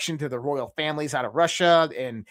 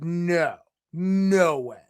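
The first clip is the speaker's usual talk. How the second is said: stunned disbelief; 3 semitones higher, 4 dB louder, much slower than usual. Retold or imitated. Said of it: "I was like".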